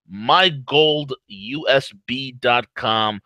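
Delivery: slow and deliberate; slow, spelling it out; slow emphasis. Shown as a demonstration.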